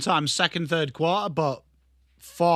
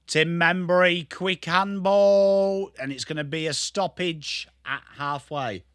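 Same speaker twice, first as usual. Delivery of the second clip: live football play-by-play; slower than usual. Pretend. Streamer calls a quick handball and stoppage, commentator style. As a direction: draw out the handball like a commentator, then settle.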